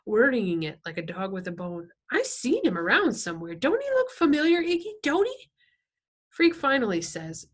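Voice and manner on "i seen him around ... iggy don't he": high, louder nagging question; squinty biker woman. A narrator's reading. Woman prodding Iggy about a half-remembered face, high and insistent. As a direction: pester him in a high, pushy voice.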